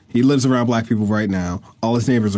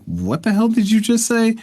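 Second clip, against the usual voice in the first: pitched way up, mock disbelief; a listener thrown by clumsy slang, higher, baffled; 10 semitones higher than usual. Joking about noticing faked slang, high baffled mock question.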